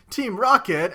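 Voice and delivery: loud, high imitated team cry; hammed-up proclamation; mock villain call-out. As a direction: call it out like a cartoon villain's entrance. Voices villains announcing their motto.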